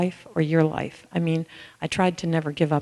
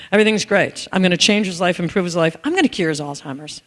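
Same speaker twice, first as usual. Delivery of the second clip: smug savior. Retold or imitated. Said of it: "you have that savior thing going on".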